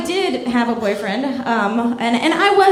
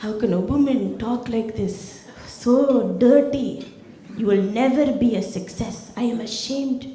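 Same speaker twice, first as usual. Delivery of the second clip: Indian uncle. Retold or imitated. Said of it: "he was like".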